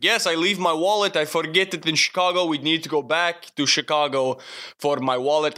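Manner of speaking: put-on halting broken English in a mild foreign accent; imitated foreign accent. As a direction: lightly imitate a stranger's foreign-accented pleading. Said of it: "That's not a good accent".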